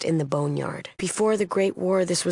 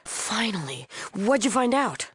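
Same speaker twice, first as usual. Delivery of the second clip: higher, eager question; eager impatience; 5 semitones higher than usual. Acted. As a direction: demand the long-awaited news. Eagerly awaiting news from scout.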